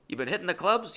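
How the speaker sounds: high imitation of nosy roommate; old roommate. Old roommate's daily question to narrator, imitated high voice. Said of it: "He would always go".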